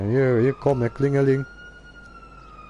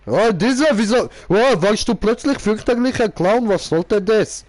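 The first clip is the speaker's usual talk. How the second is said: startled outrage; 7 semitones higher, 3 dB louder than usual. Real, not acted. Startled by clown mask.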